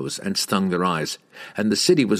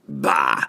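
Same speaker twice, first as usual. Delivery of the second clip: snorted bah; 6 semitones lower than usual. A narrator's reading. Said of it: "Bruner snorted".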